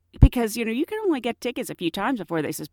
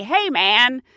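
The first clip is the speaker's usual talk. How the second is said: argumentative; 5 semitones higher, 4 dB louder than usual. Retold or imitated. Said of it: "You can't be argumentative".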